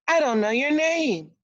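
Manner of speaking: high, loud plea after her; calling out. A narrator's reading. Prince calling after the vanishing girl, high and loud. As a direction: shout it after the fleeing stranger. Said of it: "cried the prince".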